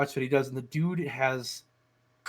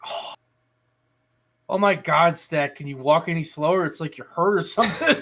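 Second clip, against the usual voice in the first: louder teasing sarcastic quote; mock sarcasm; 2 semitones higher, 5 dB louder than usual. Cassidy teasing his injured partner, loud mock sarcasm. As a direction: needle her with mock impatience.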